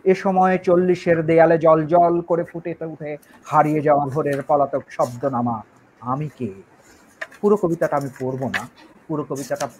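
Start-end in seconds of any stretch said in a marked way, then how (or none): 0.0-6.5 measured, even poetry reading; poem recitation. Acted. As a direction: recite the verse, sinking at the end. Reads poem aloud.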